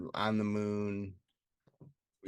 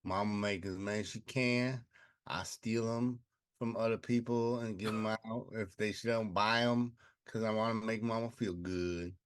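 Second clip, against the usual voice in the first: lightly played Mississippi country accent; mock southern accent. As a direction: play a southern basket maker, country accent. Plays Leroy, southern basket maker.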